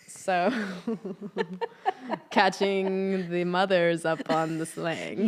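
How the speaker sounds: slow, loud, laughing words; laughing while talking. Real, not acted. Daughter explains slang to her mother, laughing. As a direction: draw it out through giggles.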